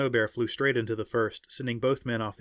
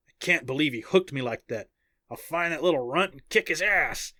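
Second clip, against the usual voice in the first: put-on southern-accented indignant grumble; strong southern accent; 4 semitones higher, 3 dB louder than usual. A narrator's reading. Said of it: "said in his strong southern accent".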